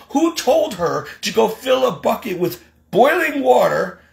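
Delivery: high-pitched, worked-up protest; exasperated, rising argument; indignant rant. Real, not acted. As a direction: tick off grievances in outraged disbelief. Indignant rant listing grievances.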